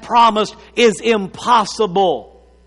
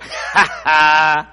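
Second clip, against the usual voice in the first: low, imitated inward chuckle; laughing to herself; 7 semitones lower than usual. Sarah doubting the promise in her tent, chuckling to herself. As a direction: put on a private, scoffing laugh. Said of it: "She's just laughing in herself".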